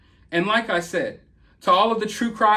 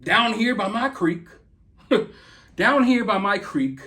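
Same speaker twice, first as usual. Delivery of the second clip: mock country accent. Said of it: "convincing you that he's a creek mud boy".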